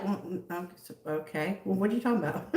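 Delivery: soft, hesitant mock bewilderment; imitating someone baffled; acted confusion. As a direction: stammer softly as a puzzled stranger. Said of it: "They'd be like".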